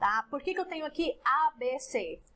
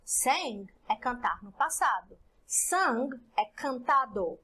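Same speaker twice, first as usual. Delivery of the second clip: slow teaching read; slower than usual. Shown as a demonstration. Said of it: "Então, exemplo".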